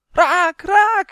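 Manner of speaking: high, loud shout of triumph; exultant elf yelling; jubilant cheer. A narrator's reading. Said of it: "juichte Uf".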